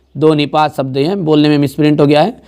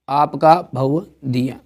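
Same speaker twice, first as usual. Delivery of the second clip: slow, careful, softer reading of आपका भव दिया; drawn-out dictation of आपका भव दिया; slow corrected reading; 4 dB quieter, much slower than usual. Shown as a demonstration. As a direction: spell out आपका भव दिया slowly and a bit softer. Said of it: "आपका लिख दो".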